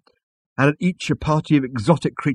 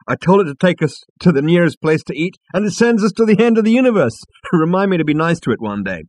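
put-on drunk excited; 8 semitones higher, 6 dB louder than usual. A narrator's reading. Drunk Zaphod boasting loudly.

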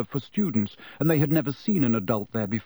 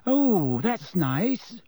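high-pitched, offended huff; huffy; 8 semitones higher, much slower than usual. A narrator's reading. Girl sent away by her brother, huffy. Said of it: "said Ginny huffily".

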